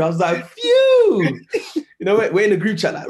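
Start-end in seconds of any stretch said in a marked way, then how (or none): 0.5-1.4 loud high whistle of relief; relieved high phew. Retold or imitated. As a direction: blow out relief, pitched high. Relief after near miss retold.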